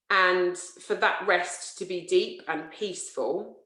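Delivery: slow guiding voice with long pauses; guided relaxation. Real, not acted. Yoga therapist opening a sleep practice, slow guided relaxation. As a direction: ease listeners into rest, unhurried.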